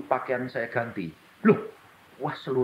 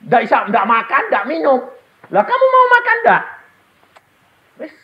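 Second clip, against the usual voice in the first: retold dialogue; 13 semitones higher, 11 dB louder than usual. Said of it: "Saya bilang".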